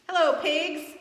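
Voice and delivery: chirpy duck saying hello; cheery duck. Acted. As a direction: call out a bright hello as Duck. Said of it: "said Duck".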